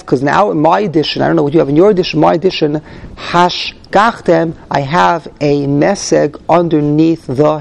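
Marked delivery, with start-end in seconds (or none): 3.2-4.6 slow hash gachtem, each part weighted; emphasis on hash gachtem. Shown as a demonstration. Teacher slowly spells out the stress for the class. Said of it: "which means to give it emphasis".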